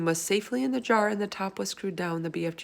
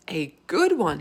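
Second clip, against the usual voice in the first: cried; 5 dB louder than usual. Acted. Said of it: "he cried".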